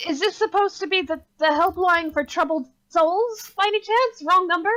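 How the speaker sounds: high, lilting attempt at a Southern accent; terrible Southern accent. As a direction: ask sweetly in a bad Southern accent. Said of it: "get to do my terrible accent".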